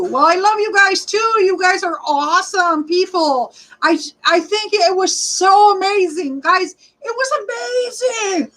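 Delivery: happily gushing, pitch well up; excited. Real, not acted. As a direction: gush to the viewers. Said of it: "thanking viewers excitedly".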